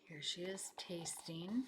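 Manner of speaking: soft whispered aside; whispered aside about the picture. Real, not acted. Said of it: "whispered aside to listeners".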